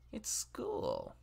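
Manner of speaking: low breathy whisper of the line. Acted. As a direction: whisper it like a secret.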